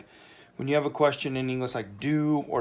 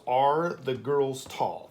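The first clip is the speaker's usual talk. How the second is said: slow reading; much slower than usual. Shown as a demonstration. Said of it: "Now we're asking".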